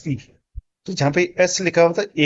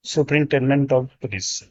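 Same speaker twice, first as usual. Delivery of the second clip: slow model reading; much slower than usual. Shown as a demonstration. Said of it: "SP का full form".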